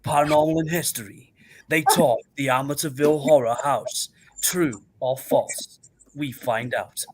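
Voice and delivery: lightly voiced show trailer; measured promo read, trailing down at the end; paranormal announcer voice. Co-host trails the Amityville Horror show, mock announcer voice. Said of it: "that's what's gonna be me parrot twerk voice".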